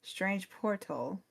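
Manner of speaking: slow, doubtful rise on strange portal; drawn-out disbelief; skeptical question. Acted. Fortune teller questions Barbie about portals, slow and skeptical. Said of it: "raises an eyebrow".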